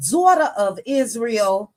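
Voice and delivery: "daughter" with a New York accent, the r dropped to "daw-tuh". Real, not acted. Greeting a chat member by screen name, in a New York accent. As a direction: say "daughter" like a New Yorker, ending in "-uh". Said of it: "say daughter like I'm from New York".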